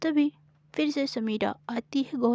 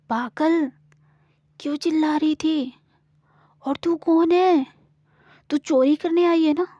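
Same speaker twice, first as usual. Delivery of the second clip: put-on higher, louder scolding girl; scolding village girl; 5 semitones higher, 6 dB louder than usual. Samira scolds Gauri for screaming, suspicious and bossy. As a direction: tell her off as a suspicious farm girl.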